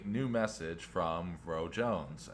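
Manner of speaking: slow, lightly imitated text reader; a hint of automated announcement; computerized truck voice. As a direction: read it out like an in-car assistant. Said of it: "it's very computerized".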